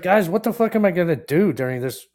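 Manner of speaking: laughing panic. Retold or imitated. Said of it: "I was like".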